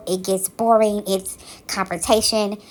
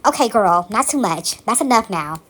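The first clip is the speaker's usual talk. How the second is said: dismissive. Retold or imitated. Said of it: "And you know what this man says?".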